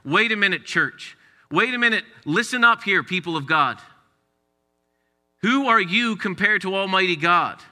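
preaching call. Acted. Preacher calling the church to listen, building. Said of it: "speaking to us to say".

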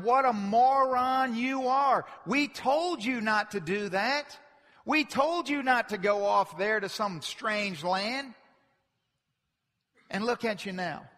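mocking. Wicked mocking the believer.

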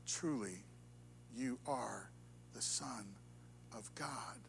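hushed, breaking into a whisper; awed whisper. Acted. Disciples in the boat worshiping, hushed awe. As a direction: breathe it in wonder.

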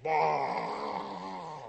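mock angry roar like the Hulk; a short growled cry of rage; Hulk-style bellow. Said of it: "I'm just like".

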